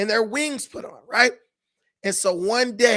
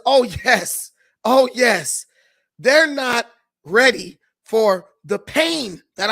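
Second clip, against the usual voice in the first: louder, slow gloating; a bee loud and smug with glee; gleeful; 6 dB louder, slower than usual. Acted. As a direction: relish the new power, louder. Bee gloats over new weapons.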